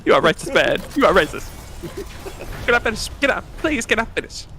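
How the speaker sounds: cartoon Canadian indignation; mock outrage. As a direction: play the offended Canadian. Mock-offended Canadian outburst.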